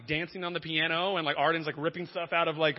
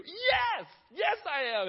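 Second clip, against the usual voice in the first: much higher, louder eager yes; a frantic father answers the boy who found his son, much higher and louder; 6 dB louder, much slower than usual. Retold or imitated. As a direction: leap at the news. Frantic relief at news.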